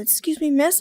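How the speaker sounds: lightly imitated courteous child; very polite. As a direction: politely get a stranger's attention. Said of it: "in the most politely way he could".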